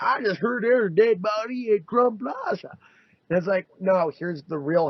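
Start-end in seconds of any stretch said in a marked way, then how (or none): 0.0-2.8 higher breathless gossip voice; mock gossip. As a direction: pass on the rumour eagerly. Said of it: "somebody be like".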